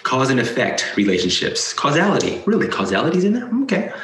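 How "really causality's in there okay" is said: incredulous laugh. Real, not acted. Mocking disbelief at list item.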